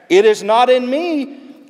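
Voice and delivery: high, loud, slow answer. Acted. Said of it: "the deep speaks back".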